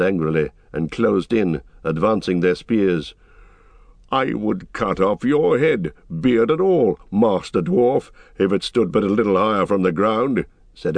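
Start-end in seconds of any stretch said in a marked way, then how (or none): 4.1-10.5 angered horseman with measured force; threatening rider. Acted. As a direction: threaten the dwarf with proud contempt. Eomer threatens the dwarf.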